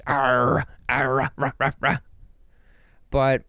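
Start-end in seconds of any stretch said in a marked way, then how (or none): 0.1-2.0 a rapper's bark. Retold or imitated. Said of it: "Little rapper in this bitch".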